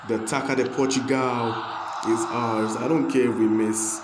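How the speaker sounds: loud, triumphant cup win celebration; excited cheer. Real, not acted. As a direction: shout it out like you just won the final.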